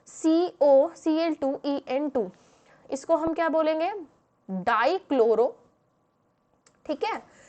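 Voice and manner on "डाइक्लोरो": dictating. Real, not acted. Dictating name while writing it.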